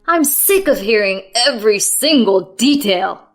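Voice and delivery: loud, angry tirade; venting fury. A narrator's reading. Husband venting at wife about her complaints, loud tirade. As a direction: unload all of it on her. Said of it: "He was venting pent-up frustrations".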